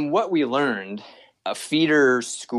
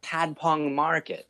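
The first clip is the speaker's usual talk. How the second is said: slow, spelled out; 6 semitones higher, 3 dB quieter, slower than usual. Retold or imitated. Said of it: "We told the tuk-tuk driver".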